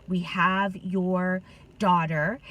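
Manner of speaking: slow, measured retold threat; imitating kidnapper caller. Scam caller to a mother, slowly voiced threat. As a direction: lightly act a caller making a slow demand. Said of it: "was from somebody that said".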